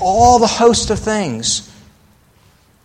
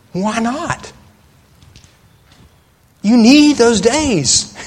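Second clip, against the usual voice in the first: mock advice voice; 5 semitones higher, 4 dB louder, slower than usual. Quoting common advice.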